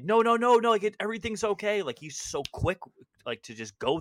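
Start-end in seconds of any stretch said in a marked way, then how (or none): 0.0-1.8 mock placating. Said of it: "like, attacks when it's like".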